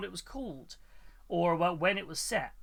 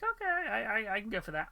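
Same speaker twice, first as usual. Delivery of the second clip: high silly voice; 4 semitones higher, 3 dB quieter than usual. Retold or imitated.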